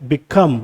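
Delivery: become, stressed on COME; stress on second syllable. Shown as a demonstration. Teacher reading two-syllable words to learners, stress on COME in become. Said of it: "second syllable पे आ रहा है".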